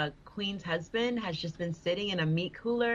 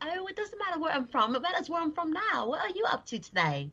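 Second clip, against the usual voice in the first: put-on British accent; 10 semitones higher than usual. Recounting how she uses a British accent to get free stuff, put-on British accent. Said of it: "A black chick doing a British accent".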